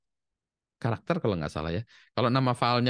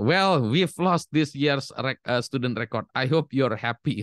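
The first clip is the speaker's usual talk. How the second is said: higher, slow, mock annoyed teacher; angry teacher; 4 semitones higher, slower than usual. Teacher blames the mother for lost records, mock annoyed. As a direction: scold it like a fed-up teacher. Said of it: "Marah-marah si gurunya".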